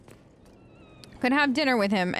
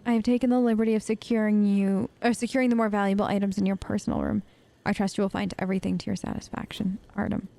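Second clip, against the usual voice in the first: measured, even read-aloud delivery; reading a note aloud. Acted. Streamer reading a found letter to viewers, even read-aloud voice.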